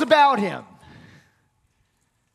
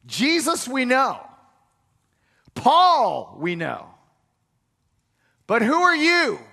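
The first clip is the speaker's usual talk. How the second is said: demon voice. Acted. The demon taunting the seven sons of Sceva. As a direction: sneer at the exorcists as the demon. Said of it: "And the demon says".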